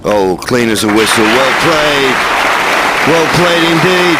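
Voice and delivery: put-on genteel old tennis commentator praise; lightly voiced classic commentator approval; Dan Maskell. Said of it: "Bit of Dan Maskell there".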